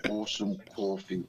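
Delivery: tentative try at New York vowels; attempted New York accent. Shown as a demonstration. UK guest trying the host's New York accent. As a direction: copy a New York accent, not quite getting it. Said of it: "I'm trying".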